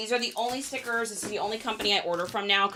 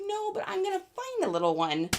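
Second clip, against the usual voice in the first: excited reply; 11 semitones higher, 5 dB quieter, faster than usual. Retold or imitated. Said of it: "I'm like".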